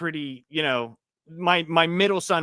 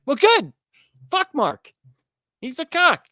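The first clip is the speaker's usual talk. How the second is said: higher, louder mock-defiant dad; mock defiant outburst; 10 semitones higher, 4 dB louder than usual. A dad tells the teacher off about his son's fight, hammed-up defiant outburst. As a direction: fire it back at the teacher in half-joking defiance.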